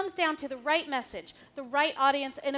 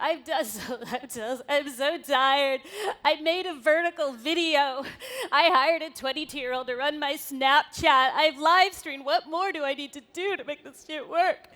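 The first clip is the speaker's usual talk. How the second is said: exasperated brand; 7 dB louder than usual. Retold or imitated. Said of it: "the sentiment that I feel from".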